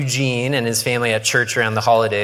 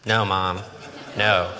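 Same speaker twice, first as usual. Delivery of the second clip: put-on whiny teenager; 3 semitones lower, slower than usual. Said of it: "It's teenage Logan".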